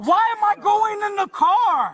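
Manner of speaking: yelling in protest; shouting. Real, not acted. Detained father protests arrest.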